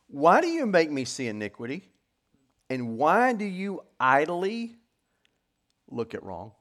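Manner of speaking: mildly dramatic scripture reading; declaimed scripture complaint. Acted. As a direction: question God as the troubled prophet. Reads scripture as prophet's complaint.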